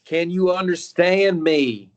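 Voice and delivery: loud, slow and overly clear, as if to a foreigner. Acted. Mother testing the monk's English, loud and slow. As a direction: spell it out loudly to someone who might not speak English. Talking to the supposed foreign monk.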